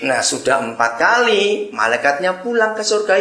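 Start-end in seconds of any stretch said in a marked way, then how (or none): none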